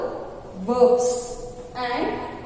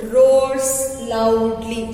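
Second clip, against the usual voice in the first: teacher demo roars loudly slowly; slow, stretched roars loudly; 3 semitones lower, much slower than usual. Shown as a demonstration. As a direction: draw out roars loudly for the class. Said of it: "Look at here. The lion".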